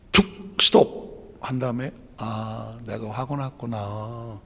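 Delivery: slow, soft and low, as if noticing your own anger; slow right down and name the feeling gently; demonstrating the calm inner voice that stops anger; calm self-noticing. Shown as a demonstration. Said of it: "이렇게 말 한마디만 하고".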